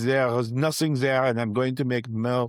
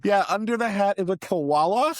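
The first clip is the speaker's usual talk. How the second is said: french chef; 8 semitones higher than usual. Acted. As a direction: exclaim like an eager chef. Chef voice continues.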